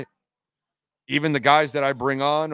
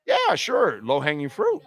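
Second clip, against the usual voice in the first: sarcastic. Real, not acted. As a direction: roll your eyes at it. Sarcastic dismissal.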